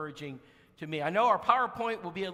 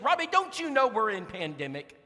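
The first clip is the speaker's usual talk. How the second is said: alarmed sister; 3 semitones higher, 6 dB louder than usual. Retold or imitated.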